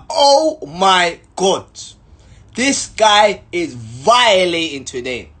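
slow, drawn-out outraged disbelief; mock disbelief. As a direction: stretch it out, scandalised. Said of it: "I'm like".

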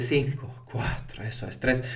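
slow, soft hypnotic countdown; cuenta de profundizador hipnótico. Shown as a demonstration. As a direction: count them down softly into trance. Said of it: "del profundizador que les dice". (cuenta hipnótica lenta y suave)

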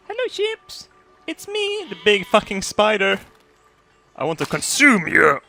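very high, creepy-cute monster voice; hammed-up villainous spider, high and sly; menacing spider. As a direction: taunt the sheep as a giant spider. Plays the big spider.

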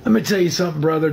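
a quick, hammed-up wrestler catchphrase; Hulk Hogan. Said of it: "I could be like Hulk Hogan".

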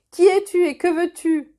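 calling down loud and high; shouted from the walls. A narrator's reading. Guard on the wall shouting down at the stranger, loud call. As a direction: challenge a stranger from the ramparts. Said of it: "lui cria-t-on depuis le chemin de ronde".

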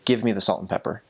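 blunt, flat request with no softening. Shown as a demonstration. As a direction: say it straight, matter-of-fact, no politeness. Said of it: "in a flat tone".

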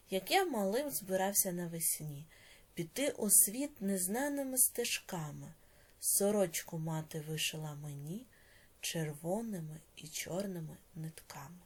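measured, expressive recitation; poem reading. Acted. Teacher reading a poem to the class, recited. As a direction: read the verse with feeling.

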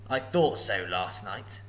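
slow, self-satisfied dragon aside; lightly voiced smug dragon; smiling to himself. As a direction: gloat privately. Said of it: "he smiled to himself".

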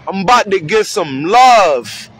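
put-on a kid lighting up when big bro arrives; eager kid calling out. Kid greets his mentor, calling out happily and slowly.

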